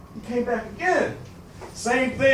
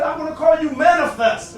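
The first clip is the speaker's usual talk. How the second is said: proud announcement; 5 semitones higher, 6 dB louder than usual. Retold or imitated. Father names his son.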